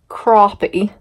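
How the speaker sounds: crappie said CROP-ee; other people's pronunciation. Shown as a demonstration. Telling viewers how others know the fish, crappie as CROP-ee. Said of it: "I cannot even say that".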